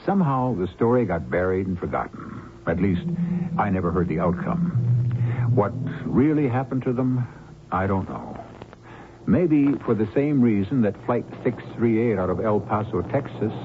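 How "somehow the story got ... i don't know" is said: calm, measured storyteller's opening; mystery host narration. A narrator's reading. Host welcoming radio listeners to the mystery, calm narration.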